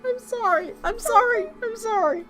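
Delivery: high, giggling sorry; apologizing through giggles; laughing apology. Real, not acted. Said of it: "I can't help laughing".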